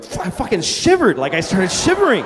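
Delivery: normal talking voice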